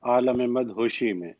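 slow, measured couplet recital; slow Urdu verse with pauses between phrases; poetry recitation. Acted. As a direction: recite the verse unhurriedly, letting each phrase settle.

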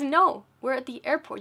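firm correction. Retold or imitated. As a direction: set her straight. Attendant correcting mom firmly.

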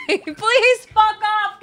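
slow, drawn-out, loud and high exasperation; slow, loud, exasperated plea. Real, not acted. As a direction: drag it out at the broken game. Angry at game bug.

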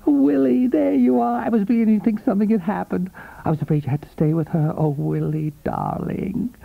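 high, bright-voiced young woman, excited to see him; breathless girlfriend greeting her older lover, high and eager; eager young girl. A narrator's reading. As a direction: gush over him like an adoring girlfriend.

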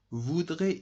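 Voudrais said alone, slow and clear with a rising end; stressing voudrais. Shown as a demonstration. Teacher to class, a clear rising Voudrais. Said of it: "it is conditional".

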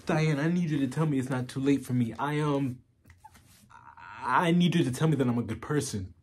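halting, earnest plea broken by long pauses; BoJack Horseman. Acted. Asking Diane if it's too late for him, halting and pleading. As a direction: vulnerable confession, searching for reassurance.

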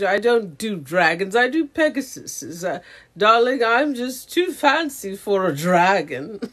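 lightly put-on fancy foreign voice; haughty Swedish cousin character. Avatar's cousin too fancy for dragons, mock haughty. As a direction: play a snooty darling, drawing out the words. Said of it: "She would probably talk like this".

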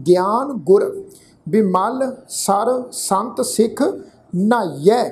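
measured verse reading, ਨਾਈਐ weighted with a half h; careful model reading with ਨਾਈਐ as "nhaiye"; demonstrated recitation. Shown as a demonstration. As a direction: recite phrase by phrase, ending on a heavy-n ਨਾਈਐ. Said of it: "ਇਸ ਢੰਗ ਨਾਲ ਪਾਠ ਉਚਾਰਨ ਕਰਨਾ ਹੈ".

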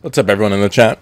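greeting while chewing; talking through candy; mouth full. Real, not acted. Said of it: "I'm eating Skittles".

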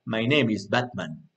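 low, serious hero reply; Batman. Acted. Teacher acting Batman answering Spider-Man, low serious voice. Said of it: "el personaje muy serio".

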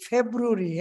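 ফেব্রুয়ারি as "feb-ROO-ri", three syllables; mocked mispronunciation. Teacher quotes a shocking video, mocking "februri". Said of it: "এটা নাকি উচ্চারণ".

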